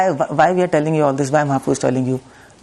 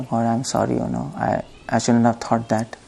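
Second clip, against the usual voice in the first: quiet apology; 3 semitones lower, 5 dB quieter than usual. Retold or imitated. Job apologizing to God.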